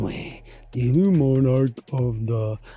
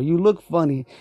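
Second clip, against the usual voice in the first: put-on drunk Barney voice; 4 dB louder than usual. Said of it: "it was Barney".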